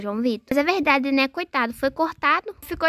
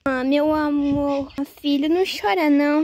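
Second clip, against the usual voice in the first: comforting; 3 dB louder than usual. Acted. Mother tells her hurt son not to cry, comforting. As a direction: comfort a crying child.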